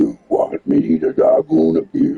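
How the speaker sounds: slow, rough death metal vocalist growl. Retelling a man in a video doing death metal, in a death metal voice. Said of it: "in a death metal voice".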